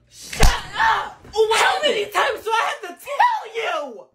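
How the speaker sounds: high, loud teacher scold. Acted. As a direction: lay into the class.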